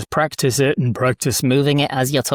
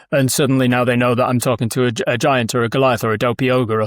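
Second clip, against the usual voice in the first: deeper giant-like quality; lowered-larynx giant, only slightly lower in pitch; dopey ogre voice; 2 semitones lower than usual. Shown as a demonstration. Coach showing a change of larynx height, deep ogre voice. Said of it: "this deeper quality".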